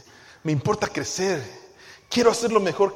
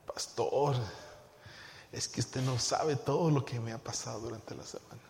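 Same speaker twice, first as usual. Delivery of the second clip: low, hushed excuse to the pastor; sheepish excuse; 6 semitones lower, 8 dB quieter than usual. Acted. Churchgoer explaining a missed Bible reading to the pastor, acted sheepish excuse. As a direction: mimic a churchgoer making a meek excuse. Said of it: "¿Qué me va a decir usted?".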